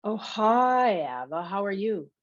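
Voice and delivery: sing-songy. Acted. Emmett greeting Ava on the phone, sing-songy. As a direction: swoop through the hello in a sing-song. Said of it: "Emmett says in a sing-songy voice".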